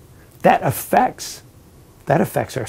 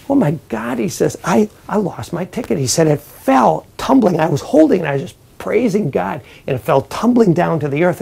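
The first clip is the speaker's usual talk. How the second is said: mock panic; 4 semitones higher, 3 dB louder than usual. Bad guy lost his ticket.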